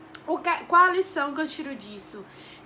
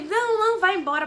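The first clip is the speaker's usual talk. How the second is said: mock brusque examiner, louder and higher; brusque retort; 6 semitones higher, 7 dB louder than usual. Examiner on his phone hurrying her off, louder imitation. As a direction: brush her off quickly, mimicking him.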